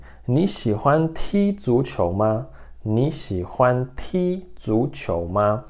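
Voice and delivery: "你喜欢踢足球吗" read slowly; slow model pronunciation. Shown as a demonstration. Teacher reading the next Mandarin sentence slowly to students. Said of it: "Próxima frase".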